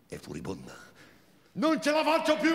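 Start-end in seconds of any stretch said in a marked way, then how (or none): 1.5-2.5 much higher, desperate outburst; Marina's thin voice. Acted. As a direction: cry it out in a thin high voice. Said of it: "quella sua voce sottile e inadeguata". (voce sottile, disperata)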